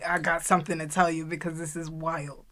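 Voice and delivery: whispered secret opener; hushed gossip whisper to a friend. Real, not acted. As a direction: lean in and whisper it. Conspiratorial opener, unvoiced.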